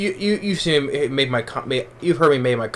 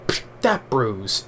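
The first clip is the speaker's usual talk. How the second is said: imitating Seagal; 4 dB quieter, much slower than usual. Reviewer quoting Seagal's Glimmer Man line, in a slow deadpan imitation. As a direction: drag it out like a deadpan tough guy.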